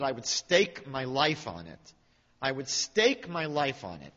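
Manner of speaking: slow, weighty, solemn vow; tremendous seriousness. Retold or imitated. Woman swears she is sure, with tremendous seriousness. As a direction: declare it slowly and gravely. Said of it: "she said to me with tremendous seriousness".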